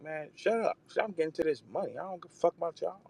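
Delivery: high mock voice, fast and boastful; high, fast mock brag; imitating a rapper barking back. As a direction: play the cocky rapper taunting rivals. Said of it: "barking back at y'all like".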